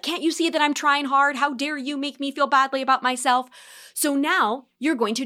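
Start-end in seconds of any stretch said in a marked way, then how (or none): 0.0-3.5 mock indignant outburst. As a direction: play the wounded snap back.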